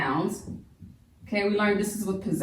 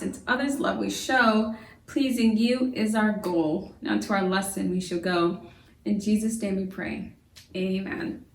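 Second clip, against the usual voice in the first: prayer. Acted. Opens lesson with rhymed prayer.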